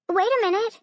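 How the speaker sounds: high-pitched interjection; piping up. A narrator's reading. Daughter afraid of being forgotten at dinner, piping up. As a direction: pipe up, voice jumping high. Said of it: "Spencer piped up".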